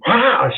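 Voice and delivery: acted-out "ah" of pain; retold howl of pain; pained yell. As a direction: cry out as if shaking off pain. Acts out shaking off the pain.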